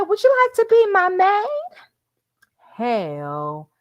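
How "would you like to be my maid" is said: film quote. Retold or imitated. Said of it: "She said".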